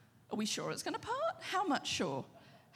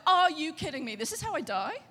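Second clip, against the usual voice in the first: disbelieving Daniel; 5 dB louder than usual. Retold or imitated. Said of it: "Daniel was like".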